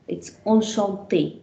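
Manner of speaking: 说 enchanté 为 on-shon-TAY, 鼻化元音; French enchanté. Shown as a demonstration. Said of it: "Let me read the words once with you".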